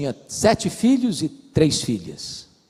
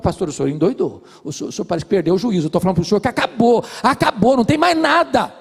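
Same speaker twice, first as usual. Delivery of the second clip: rising exasperation; 5 semitones higher, 4 dB louder, faster than usual. Retold or imitated. Angry wife argues with the pastor.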